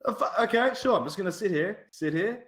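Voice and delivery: high-pitched mock compliance; put-upon compliance. Gamer acting out being told to wait, mock compliance. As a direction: play up baffled agreement, pitch well up.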